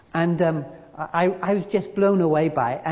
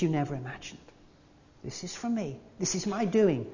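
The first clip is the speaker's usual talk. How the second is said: softer, intimate reassurance; God's gentle words; 4 dB quieter than usual. Pretend. Preacher voices God comforting anxious listeners, soft and tender. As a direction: speak it as God comforting a frightened child. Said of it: "God's saying to us".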